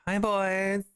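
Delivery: a hint of a flirty greeting.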